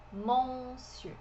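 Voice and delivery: monsieur said the French way, as mosiu; French pronunciation. Shown as a demonstration. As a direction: monsieur with a rounded French eu at the end. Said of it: "Em francês, a gente fala". (monsieur com pronúncia francesa)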